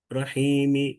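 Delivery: "রহিমি" with a light, short final i; "রহিমি" tapering off on a faint "mi"; rawm ending. Shown as a demonstration. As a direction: chant "রহিমি", barely sounding the last vowel. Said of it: "এই হরকতকে উচ্চারণ করা".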